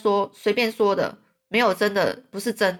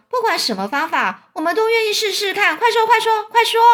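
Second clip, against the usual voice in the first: eager, escalating demand; urgent pleading; 11 semitones higher, 5 dB louder than usual. Acted. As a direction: voice climbing high, building to a shout. Centipede urges the boy to speak.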